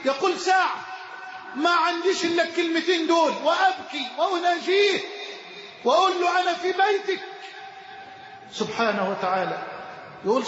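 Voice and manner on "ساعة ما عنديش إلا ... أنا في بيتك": crying out. Retold or imitated. Man retells crying out at Kaaba.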